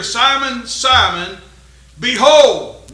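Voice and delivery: loud, rising preaching call; emphatic call. Acted. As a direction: call Simon out like a pulpit cry. Preacher voicing Jesus emphatically.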